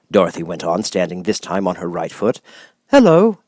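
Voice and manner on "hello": high, easy tin man hello; calm tin man. A narrator's reading. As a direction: answer calmly as the Tin Woodman. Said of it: "replied the Tin Woodman calmly".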